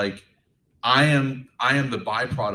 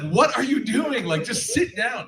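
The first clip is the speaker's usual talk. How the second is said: mock dad; 12 semitones higher, slower than usual. Dad telling son to sit.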